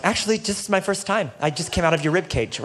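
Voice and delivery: lightly voiced Eve, barely shifted from his own voice; a playful hint of Eve answering back; impression of Eve. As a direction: pastor jokingly playing Eve for the congregation. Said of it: "that's my impression of Eve".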